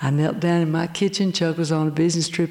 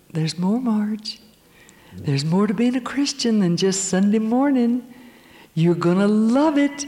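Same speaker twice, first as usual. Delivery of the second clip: gentle inviting voice; 4 semitones higher than usual. Retold or imitated. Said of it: "another voice was saying".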